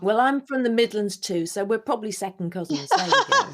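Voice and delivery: put-on broad Birmingham accent, playful; Brummie accent. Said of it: "I've ever done a Brummie accent".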